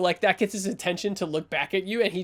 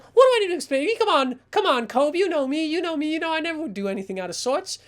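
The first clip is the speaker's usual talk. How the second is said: high, rapid babbling denial; cornered coward, words tumbling out; panicked creep making excuses; 9 semitones higher, 3 dB louder, faster than usual. Acted. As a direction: gabble excuses in a pleading rush.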